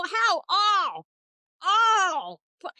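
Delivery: playfully furious, half-joking yell; mock outrage. Ranting at Nick about gargoyle phobia, mock angry shout. Mock rant demanding Nick's attraction.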